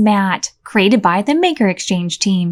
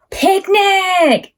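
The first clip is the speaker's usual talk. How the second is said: excited shout; 8 semitones higher than usual. Acted. Tumble bursts out about the picnic with an excited gasp. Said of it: "yelled Tumble".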